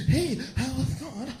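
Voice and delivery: cheery doctor. Acted. Happy immigrant doctor voiced.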